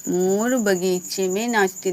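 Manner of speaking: long stressed vowels in मोर बगीचे में नाचती; weighted stresses. Shown as a demonstration. Teacher repeating the example sentence, with weighted stresses. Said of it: "देखो इसमें भी बल लग रहा है".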